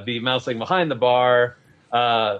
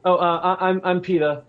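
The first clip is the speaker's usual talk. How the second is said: Peta the baker; 4 semitones higher than usual. Acted. GM voices Peta talking to customer.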